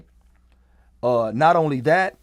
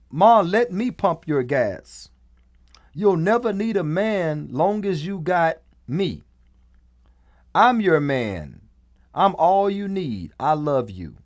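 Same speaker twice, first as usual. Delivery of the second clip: a lightly voiced, slowed little boy, higher; mock little boy; 3 semitones higher than usual. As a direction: play the toddler sweet-talking his mom in a light, higher voice. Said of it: "What three-year-old talks like that?".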